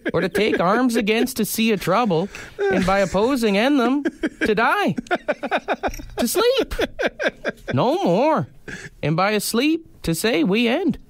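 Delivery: put-on hammy Canadian accent, pitch leaping high on key words; Canadian bud Hamlet. Reading Hamlet to his cohost as a Canadian bud, hammed-up accent. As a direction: deliver Hamlet like a hockey-rink hoser. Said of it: "I gotta get in character".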